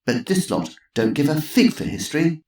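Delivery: mild snort of contempt; scornful old lady. Acted. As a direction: dismiss the idiots. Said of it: "snorted Missus Twistleton".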